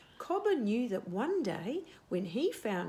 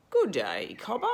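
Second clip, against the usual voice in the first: deep slow owl voice; 6 dB louder than usual. Acted. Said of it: "in a voice that was deep and slow".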